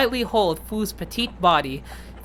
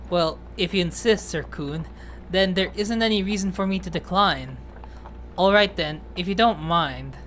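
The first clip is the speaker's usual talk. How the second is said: lightly voiced shy, polite character; understated bashful acceptance; timid Fu, agreeing; 2 semitones lower, 3 dB quieter than usual.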